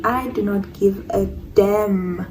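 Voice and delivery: slow, word by word; slow, emphatic defiance; defiant declaration. Retold or imitated. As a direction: stretch it out deliberately, every word weighed.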